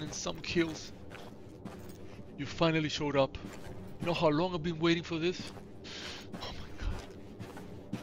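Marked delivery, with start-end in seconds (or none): 6.4-8.0 drawn-out, hushed "oh my god"; barely voiced, overwhelmed; awed whisper. Real, not acted. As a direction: whisper it very slowly, in disbelief. Awed at long-awaited trophy animal.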